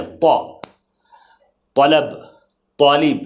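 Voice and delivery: طا said heavy with a full mouth; full-mouth taa. Shown as a demonstration. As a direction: fill the mouth for طا. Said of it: "منہ کے اندر منہ کو بھر دینا ہے".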